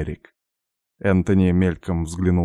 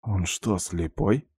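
whispering; 6 dB quieter, slower than usual. Acted. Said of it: "шёпотом спросил я".

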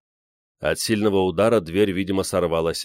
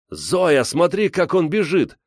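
put-on very high boyish delight; rapturous shout; 10 semitones higher, 3 dB louder, slower than usual. A narrator's reading. Гриша shows his sister the fleeing bear, thrilled shouting. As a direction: call out in breathless wonder. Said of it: "восторженно кричал Гриша".

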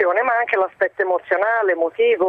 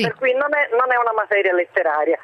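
over the phone. Real, not acted. Teacher caller speaking by phone.

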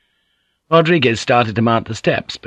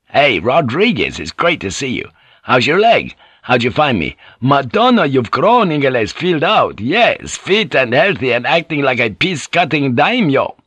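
raised, swooping greeting; hearty old friends; 5 semitones higher, 3 dB louder than usual. Acted. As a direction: greet a long-missed shipmate with gusto.

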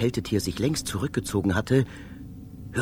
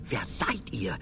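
startled scream; 3 semitones higher than usual. Acted. Narrator confronting his double, building from hush to shout. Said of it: "Ich konnte mich nicht enthalten zu schreien".

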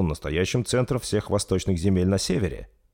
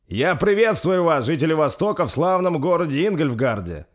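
solemn; 9 semitones higher, 4 dB louder than usual. Acted. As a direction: proclaim it like a king. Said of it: "торжественно произнёс Рольф".

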